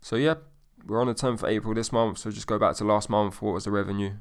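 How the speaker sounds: matter-of-fact, blunt question; no smile in the voice. Shown as a demonstration. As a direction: ask it plainly with no emotion. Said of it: "you literally wanna say bluntly".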